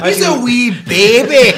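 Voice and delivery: high, put-on Pakistani accent. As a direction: tease him in a Pakistani accent. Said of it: "Why are you doing a Pakistani accent?".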